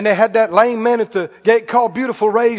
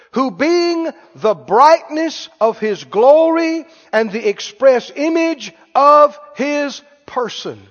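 louder, slow, swelling preaching; building scripture read; 4 semitones higher, 3 dB louder, slower than usual. Real, not acted. Preacher swelling the Hebrews text to his congregation, slow and louder. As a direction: lean into each word of scripture.

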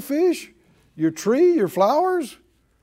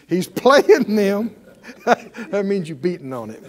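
chuckling through the joke; laughing. Real, not acted. Preacher laughing at his rented banjo joke.

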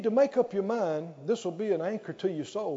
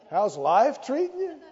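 louder, higher, laughing through the question; laughing mock question; 4 semitones higher, 4 dB louder than usual. Preacher mocks a greeting with a laugh. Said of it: "I've had people ask me".

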